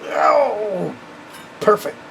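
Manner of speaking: bursting with relief and joy; delighted. Real, not acted. Repairman thrilled the stuck part finally gave, delighted.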